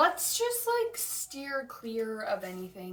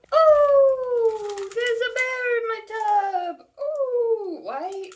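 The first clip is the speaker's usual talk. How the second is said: shrill squeal, pitched way higher and louder; mock shriek; 12 semitones higher, 9 dB louder, slower than usual. Mocking the book's girl finding a bear in her tub, shrieking. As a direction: play a panicked kid spotting a bear.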